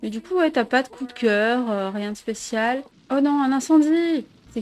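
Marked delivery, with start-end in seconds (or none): 3.1-4.3 raised, louder cry of alarm; real gamer dismay; dismayed outcry. Real, not acted. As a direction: exclaim at a sudden mishap. Fire breaks out in the game.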